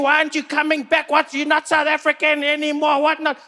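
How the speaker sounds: hammed-up aggrieved South Africans; mock angry fans. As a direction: whine at Trevor as outraged fans.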